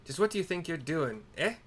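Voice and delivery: a hint of a scolding old woman; lightly voiced cranky old lady; haggard hag. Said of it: "Haggard hag".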